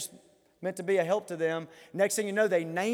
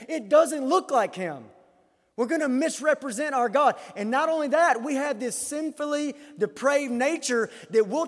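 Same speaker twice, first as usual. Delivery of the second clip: higher-pitched, insistent pulpit delivery; forceful preaching; 7 semitones higher, 4 dB louder than usual. Real, not acted. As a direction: preach it with rising urgency.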